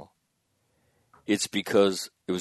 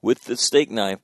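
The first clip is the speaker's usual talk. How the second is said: brisk, louder director giving orders, fast at the start; bossing an actor through an impossible stunt; mock film director; 3 semitones higher, 5 dB louder, faster than usual. Man imagines directing his son, hammed-up director's orders.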